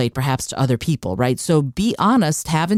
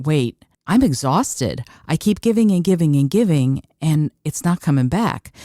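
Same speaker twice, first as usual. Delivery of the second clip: mock exhausted giver. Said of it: "you're going".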